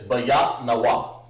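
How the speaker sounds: Ba Yath Na Wa, split into separate syllables. Shown as a demonstration. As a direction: break Ba Yath Na Wa apart. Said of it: "it'll be like this".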